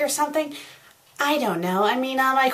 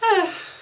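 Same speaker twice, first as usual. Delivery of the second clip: high-pitched sigh; exasperated sigh; 11 semitones higher than usual. Real, not acted. Exasperated by the bad fanfic.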